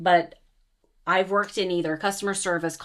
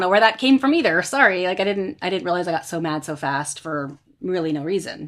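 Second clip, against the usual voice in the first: flustered apology; 4 dB louder than usual. Retold or imitated. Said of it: "bringing it down like that would probably trigger him to say".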